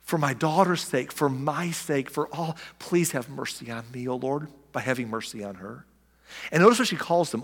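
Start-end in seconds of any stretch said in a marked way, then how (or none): 0.0-5.9 pleading. Retold or imitated. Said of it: "And she's like".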